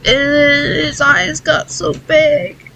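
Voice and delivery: real tearful voice breaking high, sobbing through words; crying. Real, not acted. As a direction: cry while telling it, barely holding together. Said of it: "I don't mean to cry".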